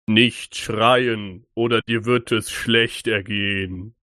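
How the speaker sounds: a hint of a menacing ghost king, slowed; lightly voiced stern king, threatening; deep manly voice. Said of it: "In einer so tiefen und männlichen Stimme".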